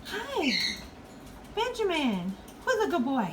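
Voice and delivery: high cooing pet voice. Real, not acted. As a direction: sweet-talk the bird.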